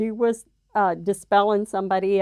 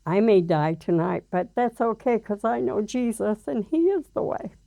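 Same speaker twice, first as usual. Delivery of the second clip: retold tearful reply; 2 semitones higher than usual. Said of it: "I started crying".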